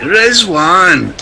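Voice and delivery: Rizwan! shouted in broad Glaswegian; loud Scottish call of Rizwan!; Glaswegian accent. Shown as a demonstration. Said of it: "Something that Billy Connolly might say".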